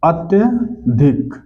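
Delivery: अत्यधिक drawn out very slowly, each sound clear; धीरे-धीरे साफ़ बोलें: अत्यधिक; slow careful spelling-out. Shown as a demonstration. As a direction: stretch out अत्यधिक so the class hears every syllable. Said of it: "यह तो अत्याधिक नहीं होता".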